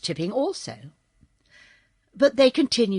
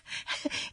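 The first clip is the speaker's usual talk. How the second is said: nervous little laugh; 12 dB quieter than usual. Acted. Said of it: "gave a little laugh that sounded a bit nervous".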